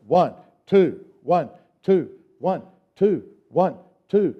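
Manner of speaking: brisker, evenly punched count; sped-up two-beat count. Shown as a demonstration. Teacher speeding up the class's beat practice, brisker count. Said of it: "Now let's speed it up".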